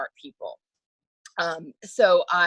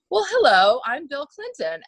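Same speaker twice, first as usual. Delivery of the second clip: higher, louder charming hello; imitating Bill Clinton; 7 semitones higher, 4 dB louder than usual. Bill Clinton introducing himself, lightly imitated. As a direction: ham up the smooth introduction. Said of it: "And he said".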